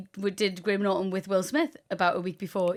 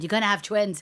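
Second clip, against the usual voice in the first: Irish accent impression. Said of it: "she went".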